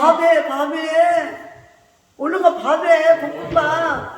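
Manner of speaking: 크게 부르듯 높은 목소리; 저쪽에 들리게 외쳐; calling out. Real, not acted. Calling out about the meal. (크게 불러 외치듯)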